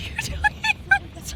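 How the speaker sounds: very high, slow, stretched question; imitating shock at the jet crossing; mock disbelief. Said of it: "we're like".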